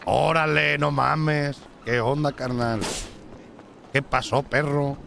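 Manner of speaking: light put-on Mexican slang voice; hint of a Mexican accent; mock Mexican accent. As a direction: play a meme Mexican gangster, lightly. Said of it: "me sale bien el acento meme".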